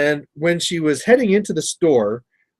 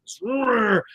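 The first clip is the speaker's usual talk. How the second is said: higher revving truck roar; imitated engine roar; 6 semitones higher, 5 dB quieter than usual. Imitating the truck racing over to block him, engine roar. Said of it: "just roars over to him".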